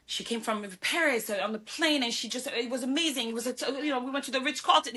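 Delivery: airy mock storytelling; mock fairy-tale version. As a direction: lightly parody a glamorous tale, lifting the pitch. Voices what people wrongly think.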